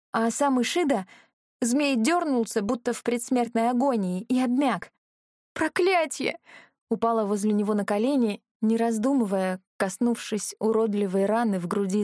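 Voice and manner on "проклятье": dismayed curse. Acted. Heroine's dismay at wounded dragon.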